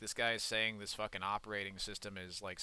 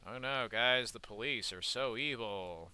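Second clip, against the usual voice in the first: hammed-up sarcastic lament; mock whiny outrage; 2 semitones higher, 4 dB louder, slower than usual. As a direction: parody the complainers' fake outrage. Mocking people who hate police.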